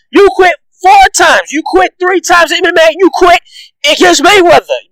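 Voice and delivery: angry ranting shout; heated shout. Real, not acted. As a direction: yell it right at him. Ranting at Conor about quitting.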